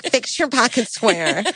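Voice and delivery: slow, drawn-out mock instruction; mock bossy aside. Bride supposedly correcting groom mid-ceremony, mock bossy aside. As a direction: imitate ordering the groom, stretched out.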